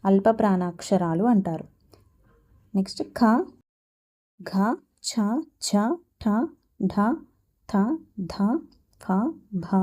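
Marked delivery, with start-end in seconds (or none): 3.0-9.8 each of ఖ, ఘ, ఠ, ఫ said singly with heavy aspiration; pressed aspirated letters. Shown as a demonstration. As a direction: press ఖ, ఛ, థ, భ out with a puff of air. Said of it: "వంటి అక్షరాలని ఒత్తి పలుకుతాం".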